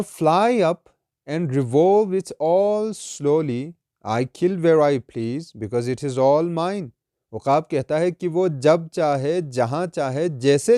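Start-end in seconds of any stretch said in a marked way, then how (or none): 0.0-6.9 slow, measured verse reading; solemn, deliberate poetry reading; poem recitation. Acted. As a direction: recite it slowly, drawing out each phrase.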